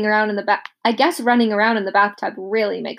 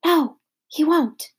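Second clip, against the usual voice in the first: nurse voice; 7 semitones higher, slower than usual. A narrator's reading. Nurse confides to Peter.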